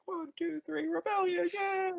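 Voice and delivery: high, cheery hands-in chant; mock team cheer before the big attack. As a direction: chant it like a pep rally.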